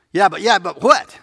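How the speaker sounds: high, loud flustered objection; indignant crowd. Acted. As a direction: sputter like a caught man. Acting the accusers' protest.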